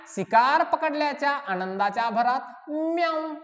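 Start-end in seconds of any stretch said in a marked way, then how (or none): 2.7-3.3 drawn-out imitated meow; cat-like meow. Teacher showing children the dolphin's joyful cry on catching prey, imitated meow. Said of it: "असा आवाज सुद्धा काढतो".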